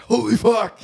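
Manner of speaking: high, very loud retold yell; hammed-up high shriek of alarm; panicked shout. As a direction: yell it out, reliving the shock. Retold panic on seeing ghost.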